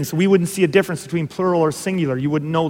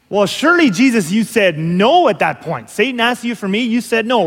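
higher-pitched mock protest; incredulous pleading; 4 semitones higher, 3 dB louder than usual. Preacher as Peter questioning Jesus, incredulous pleading. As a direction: plead in disbelief, pitch lifted.

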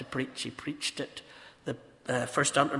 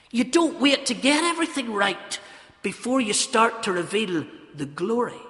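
raised, emphatic pulpit voice; forceful sermon delivery; impassioned preaching; 7 semitones higher, 6 dB louder than usual. Real, not acted. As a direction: press the point home loudly.

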